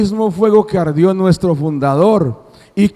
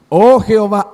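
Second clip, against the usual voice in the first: pleading prophet; 4 dB louder than usual. Acted. Preacher voices the prophet's plea.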